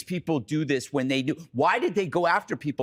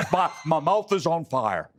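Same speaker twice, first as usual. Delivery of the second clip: lightly voiced Cory Booker, hammed up; a mock Booker complaint, laughing through it; imitating Cory Booker. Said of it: "That's how he talks".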